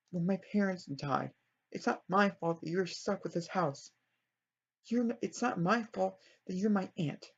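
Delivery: restrained mock yelling; mild acted yell. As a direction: act out a wronged niece lashing out. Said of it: "I think she can yell at her".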